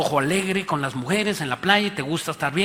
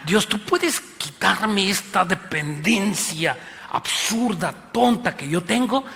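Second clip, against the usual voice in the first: pleading prayer; 3 semitones higher, slower than usual. Pretend. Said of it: "Si realmente dijeras".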